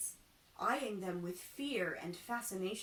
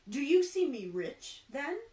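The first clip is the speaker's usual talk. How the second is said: louder, higher eager question; excited exclaim; 5 semitones higher, 9 dB louder than usual. Acted. Carpenter asking the seer, louder eager exclaim. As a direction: burst out hopeful. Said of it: "exclaimed the carpenter".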